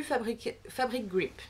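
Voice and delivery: French-accented English product name; accent anglais. Real, not acted. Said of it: "mon superbe accent anglais". (anglais avec l'accent français)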